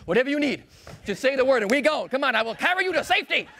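high, eager voice of the feet; feet eager to flee. Acted. Her feet urging her to run from the creep, high and eager. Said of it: "They're like".

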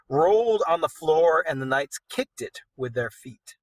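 steady storyteller reading aloud; story narration. A narrator's reading. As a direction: read it like an epic tale. Reads the poem aloud.

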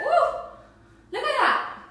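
excited. Real, not acted. Minute of plank just finished.

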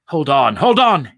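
rising from urgent to high and loud; alarmed cry. A narrator's reading. Saul seeing New York rise around him, alarmed cry. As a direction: cry it out, building in panic. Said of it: "he cried".

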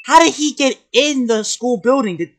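high, loud incredulous question; loud disbelief. Real, not acted. Commentator challenging a plot hole, loudly incredulous.

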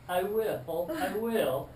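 a man lifted off the ground promising quickly; scared promise. Retold or imitated. Frightened smoker promises David, high and pleading.

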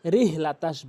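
রিহ with a light small h; common mispronunciation. Shown as a demonstration. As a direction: say রিহ with a weak h. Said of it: "অধিকাংশ লোক".

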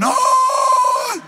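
long, very high mock scream; answering scream. Startled pastor screams back at the healed man, high scream. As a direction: shriek back on one held note. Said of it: "And I start going".

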